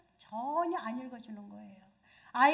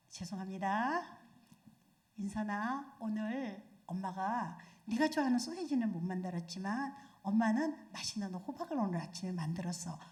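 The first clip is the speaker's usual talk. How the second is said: put-on mother talking calmly to her child; gentle mother; 3 semitones lower than usual. Shown as a demonstration. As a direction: coax the child tenderly. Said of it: "이렇게 말할 때".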